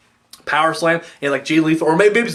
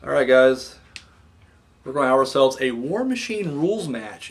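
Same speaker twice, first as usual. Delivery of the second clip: gentle, polite announcer manner, lightly done; mock mild-mannered wrestler promo; 4 dB quieter than usual. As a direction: speak like a soft-spoken nice guy. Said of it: "the most mild-mannered sounding guys".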